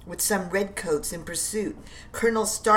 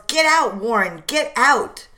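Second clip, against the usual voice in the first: higher, raised urgent shout; yelling; 4 semitones higher, 5 dB louder than usual. Acted. Prescott yelling at Warren to escape, raised urgent shout. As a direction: order him out urgently. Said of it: "Prescott yells".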